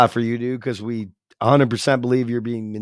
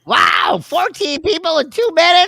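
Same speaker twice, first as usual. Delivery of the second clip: sarcastic amazement; 13 semitones higher than usual. Acted.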